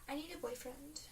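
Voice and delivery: high, soft whiny sigh; mock whine. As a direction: whimper it like a needy friend. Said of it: "she's like".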